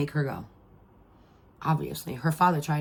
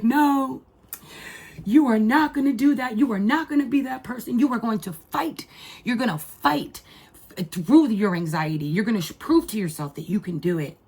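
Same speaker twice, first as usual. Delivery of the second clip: raised, higher emotional scolding; mother yelling at her anxious daughter, half-crying; retold yelling; 4 semitones higher than usual. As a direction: push her hard, voice near breaking. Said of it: "I was yelling at her".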